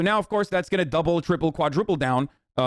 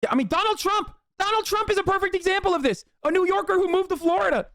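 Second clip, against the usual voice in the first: high-pitched. Real, not acted. Pitch far higher, sarcastic.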